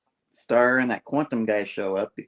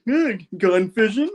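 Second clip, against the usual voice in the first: much higher and slow, a drawn-out put-on voice; teasing hero voice; 10 semitones higher, 3 dB louder, slower than usual. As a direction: stretch the pun out slowly, savoring it. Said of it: "And Overtime's like".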